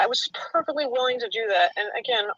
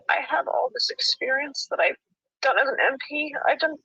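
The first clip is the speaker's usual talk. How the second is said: whiny; 5 semitones higher than usual. Real, not acted. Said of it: "Now the whiny voice comes on".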